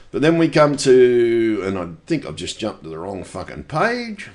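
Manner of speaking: winded, short of air; out of breath. Real, not acted. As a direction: talk while out of breath. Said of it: "I just need to catch my breath".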